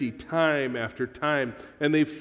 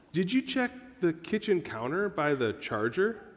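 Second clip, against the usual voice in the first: put-on sweet, innocent tone, quieter; 2 semitones higher, 4 dB quieter than usual. Acting out how he questions her about a lost item, mock-sweet and innocent. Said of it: "sweetly, innocently".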